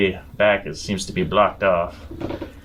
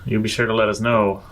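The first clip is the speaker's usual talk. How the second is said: calling out; 4 semitones higher than usual. Acted. Companion calling after Atlas as he walks off, raised call. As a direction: call down the tunnel so he hears.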